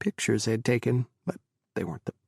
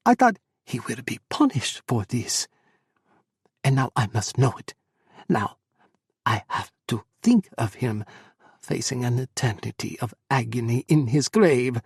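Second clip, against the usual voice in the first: anguished; 5 dB louder than usual. Acted. Mother's anguished outburst.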